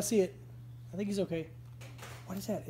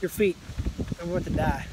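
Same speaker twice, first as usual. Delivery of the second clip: in pain; 5 semitones higher than usual. Real, not acted. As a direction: talk through the pain. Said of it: "pressure points of torture".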